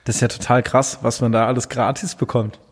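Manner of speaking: coughing after swallowing coffee wrong; throat caught on coffee; choking on a drink. Real, not acted. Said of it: "warum hast du so einen Husten".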